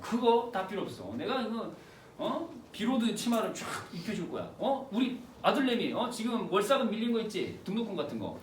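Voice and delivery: lightly acted tipsy husband making big promises; mock boastful drunk; drunken bragging. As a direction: talk big, peppered with little "huh?"s. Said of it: "이러면서 막 뻥을 치는 거야".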